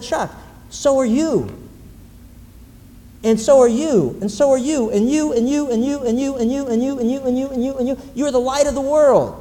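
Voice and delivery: high, loud, insistent, pointing at one person after another; Jesus speaking to each listener. Retold or imitated. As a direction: proclaim it to each of them in turn, rising. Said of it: "You know what he said?".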